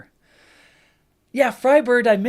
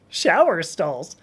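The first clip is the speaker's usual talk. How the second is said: "shower stalls" slowly, each word pronounced with care; careful retry; 2 semitones lower, 4 dB louder, slower than usual. Real, not acted. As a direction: take "shower stalls" slowly after tripping over it. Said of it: "I still can't say it".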